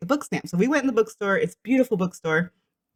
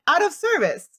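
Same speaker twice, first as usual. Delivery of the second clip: reading bus sign; 6 semitones higher, 4 dB louder than usual. Retold or imitated. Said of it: "on the bus little heading".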